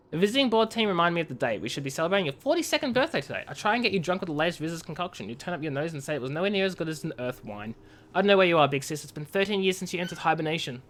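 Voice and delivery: lightly voiced, quiet grieving read; sorrowful letter. Sibling writes to a sister lost in hibernation, softly sad.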